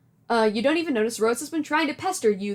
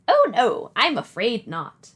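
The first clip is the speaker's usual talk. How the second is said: Nana voice; 4 dB louder than usual. Acted. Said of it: "Do you like my Nana voice?".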